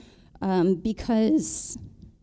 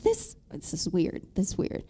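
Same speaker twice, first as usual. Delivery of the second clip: hushed puzzlement; 6 dB quieter than usual. Retold or imitated.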